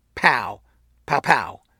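pause after first "pow," then quick rapid "pow"s. Acting out shots someone described: pause after first pow, then rapid. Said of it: "the first shot came, and then there was a short delay, and then the next two shots came in rapid succession".

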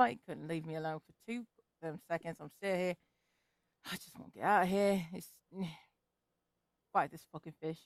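hushed, half-whispered muttering under the breath. Voicing a character swimming toward a leviathan: half-whispering to himself. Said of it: "You're really quiet for some reason".

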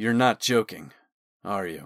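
low, grave, deadly serious tone. Talon stops teasing and questions Osman, deadly serious. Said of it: "his voice dropped to a deadly serious tone".

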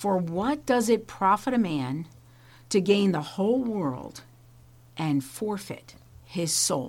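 said very slowly at an unhurried pace. Quoting a favourite Bible verse for those listening in, very slowly. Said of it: "I will just say it very slowly".

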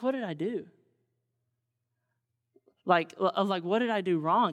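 acted, sad, sorrow-laden, sorrowful voice. Explaining verse 5, the speaker acts out his question, retelling in a sad voice. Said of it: "Can you hear the sadness in his voice?".

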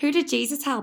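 put-on high, teasing kid voice.

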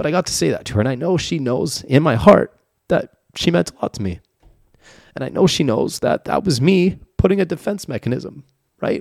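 tearful voice, crying through the words. Speaker admitting regret about a woman who meant a lot to them, crying. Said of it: "I'm crying right now".

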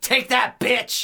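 heavy, forceful punch on the word "bitch". Imitating how some guys say the word, with forceful oomph on bitch. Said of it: "they say it with so much oomph".

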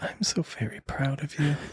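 put-on sappy tone, whispered and breathy. Saying a sappy line to a partner as a joke: put-on gay-sounding voice. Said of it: "how unbelievably gay I sound when I say that".

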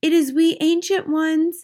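timid, meek, humble, high little voice. Reading a story, a voice behind the bedroom door answers the witch, meek voice. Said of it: "said a meek voice from behind the door".

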